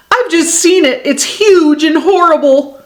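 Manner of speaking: high, alarmed storybook voice; mildly panicked; frightened report. A narrator's reading. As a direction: raise the pitch in alarm. Frightened beaver reports a monster.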